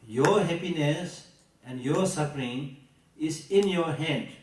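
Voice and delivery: slow, weighty, each word placed; slow emphatic quote. Shown as a demonstration. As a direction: deliver the teaching slowly and gravely. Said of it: "he summarizes this point by saying".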